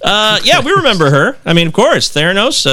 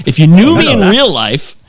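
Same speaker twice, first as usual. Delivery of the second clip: pleading email read; 7 semitones higher than usual. Acted. Acting out listener's aggrieved email.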